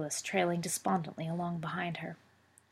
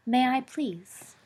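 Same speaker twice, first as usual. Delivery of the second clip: winningly; 6 semitones higher, much slower than usual. A narrator's reading. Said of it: "he said winningly".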